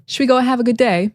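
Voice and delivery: imitated quote, first words blended into "shwi"; reduced "should we". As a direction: run "should we go" together. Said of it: "he started the video by saying".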